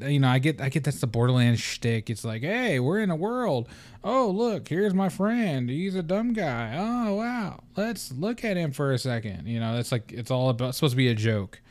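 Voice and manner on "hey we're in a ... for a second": high, airy mock of cheesy game banter; high-pitched goofy game voice; mock goofy character. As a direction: parody the silly sidekick chatter. Mocking game characters' dialogue.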